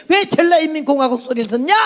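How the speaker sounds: high-pitched indignant question, rising at the end; impassioned challenge. Retold or imitated. Repeats her challenge, now impassioned.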